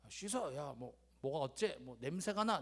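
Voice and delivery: lightly imitated grumbling father; subdued, irritable father impression; gruff angry father. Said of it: "베이스가 깔려 계신 분이세요".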